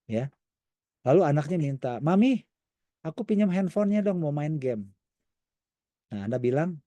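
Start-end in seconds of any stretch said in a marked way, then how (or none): 2.0-4.8 put-on higher, whiny little child asking Mami; childlike pleading. Child begging mother for her phone, high whiny plea.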